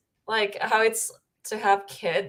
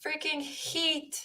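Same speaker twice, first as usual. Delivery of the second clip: mock cheer; 9 semitones higher, 5 dB louder than usual. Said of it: "you were like".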